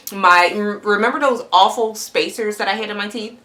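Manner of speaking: words a bit thick from fresh braces; talking with new braces. Real, not acted. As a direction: speak round new brackets. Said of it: "Excuse me if I'm talking weird. It's the braces".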